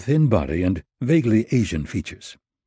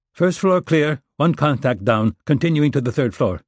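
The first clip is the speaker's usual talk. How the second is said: radio voice; 6 semitones higher than usual. Acted. Voice over the earpiece.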